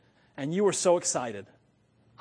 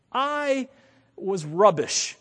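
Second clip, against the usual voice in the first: British word; 3 semitones higher, 4 dB louder, much slower than usual. Shown as a demonstration. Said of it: "I love British talk".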